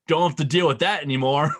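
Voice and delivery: husband gleeful after smashing the deadbolt; laughing triumph. Retold or imitated. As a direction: laugh it out, case closed.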